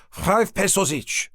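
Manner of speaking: slow, grinning sales pitch; name the price with a smile. A narrator's reading. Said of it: "Still grinning".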